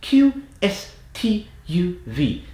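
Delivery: high, cliché British letters; stereotypical British accent. Shown as a demonstration. Accent coach demonstrates letters forward in the mouth, stereotypical British accent. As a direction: spit each letter out in exaggerated British. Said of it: "spit those letters out at your hand".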